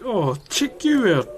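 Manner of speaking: mock triggered. Streamer retelling his triggered reaction, mock indignant. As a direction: stretch it out as a teasing retort. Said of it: "I got pretty triggered".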